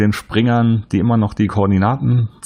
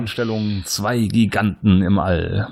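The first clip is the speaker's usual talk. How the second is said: dramatic trailer narration. Pretend. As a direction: read it like an epic film opener. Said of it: "Scheiße, was hast du genommen?".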